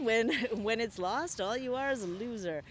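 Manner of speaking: laughing. Real, not acted.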